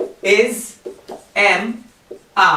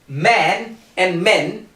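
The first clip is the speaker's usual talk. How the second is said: "man and men" drawn out slowly, the vowels kept apart; slow model; much slower than usual. Shown as a demonstration. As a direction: spell out the vowels slowly for learners. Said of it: "the fourth one is men".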